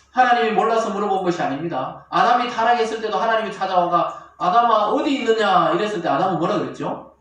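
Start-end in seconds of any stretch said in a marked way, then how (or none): 4.4-5.7 loud acted call of God. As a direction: call out loudly to someone hiding. God calls out to Adam.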